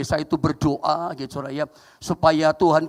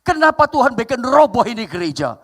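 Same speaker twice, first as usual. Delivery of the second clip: raised, louder retold cry to God; mock tearful lament; 5 semitones higher, 4 dB louder than usual. Pastor asking God about the collapsed church, mock tearful lament. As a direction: imitate a distressed pastor's plea, no real sobbing. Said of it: "pendeta itu nangis, ngomong begini".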